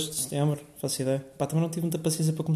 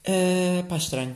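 normal talking voice

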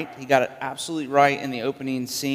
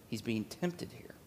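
whisper; 3 semitones lower, 14 dB quieter than usual. Real, not acted. Preacher whispering to the congregation about Jesus tempted, hushed.

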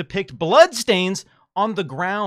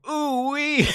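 high whooping laughter; laughing shout; 13 semitones higher, 4 dB louder than usual. Real, not acted. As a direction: burst out laughing loudly. Laughing at own joke.

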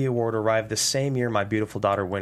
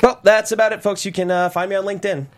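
nervous; 7 semitones higher, 6 dB louder than usual. Acted. Hurried exit after noticing son missing.

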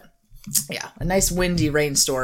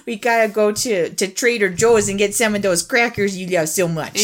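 put-on Wisconsin accent. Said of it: "I love that accent".

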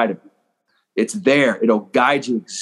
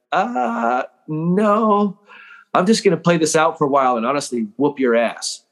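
cocky retort; 5 semitones higher than usual. Retold or imitated. Retorting to mental training is soft.

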